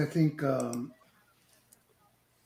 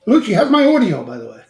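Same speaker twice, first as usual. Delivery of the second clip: muffled behind mask; 7 semitones higher, 13 dB louder, faster than usual. Real, not acted. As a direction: voice muffled like through a wrestling mask. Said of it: "like a Mexican wrestler with the mask on".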